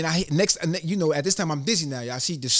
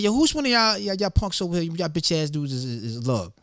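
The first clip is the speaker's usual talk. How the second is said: calling out a challenge; 3 semitones higher than usual. Retold or imitated. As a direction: call out the crowd like a street kid looking for a fight. Confronting a group of kids.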